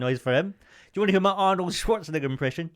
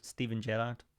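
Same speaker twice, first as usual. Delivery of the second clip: put-on Liverpool accent; 4 semitones lower, 11 dB quieter than usual. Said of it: "My get into Liverpool accent is".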